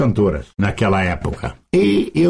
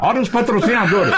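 laughing; 10 semitones higher than usual. Real, not acted. Laughing at his own story.

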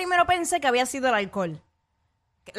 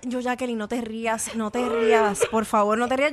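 trying not to laugh; 3 semitones lower than usual. Retold or imitated. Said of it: "yo decía".

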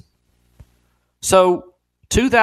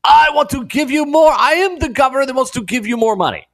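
mock Governor Cooper; 9 semitones higher than usual. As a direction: ham up a governor handing out money. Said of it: "Governor Cooper would try to double or triple it and just say".

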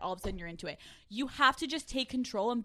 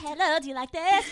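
high mock seductive voice; 5 semitones higher, 9 dB louder than usual. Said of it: "You're like".

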